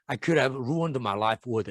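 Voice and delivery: slow model reading, "ruined" as "ROO-und"; modelled pronunciation. Shown as a demonstration. Teacher modelling the sentence for students, "ruined" as "ROO-und". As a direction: read it slowly, reducing the end of "ruined". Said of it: "이렇게 발음하는 거 기억해 두시면".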